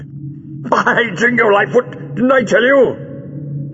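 high, drawn-out hearty exclamation; theatrical high-pitched exclaiming; brightened, jubilant. A narrator's reading. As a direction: crow it in delighted triumph. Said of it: "Jago brightened immediately".

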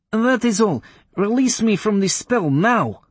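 high, slow, imperious witch demand; commanding witch. Acted. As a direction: order release like an offended witch.

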